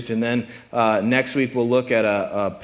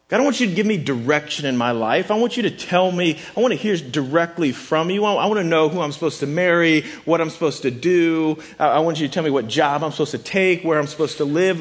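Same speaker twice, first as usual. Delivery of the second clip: eager pleading; 4 semitones higher, faster than usual. Acted. Voicing eager prayers for direction.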